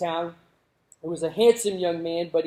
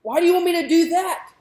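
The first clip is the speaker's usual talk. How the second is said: put-on high questioning girl's voice; a daughter baffled by an odd request; puzzled daughter; 11 semitones higher, 5 dB louder than usual. Daughter asking her father why she must hold the coal, high and puzzled. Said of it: "she goes".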